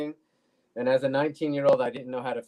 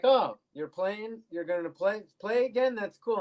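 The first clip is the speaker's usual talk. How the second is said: mock-eager kid voice, pitched higher; imitating his younger self, thrilled to see dad play; excited kid; 8 semitones higher than usual. Young self excited at dad's bass.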